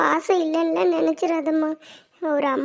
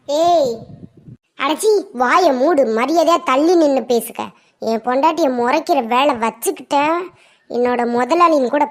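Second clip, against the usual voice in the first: angry rebuke; 3 semitones lower than usual. Acted. Husband rebukes in-law angrily.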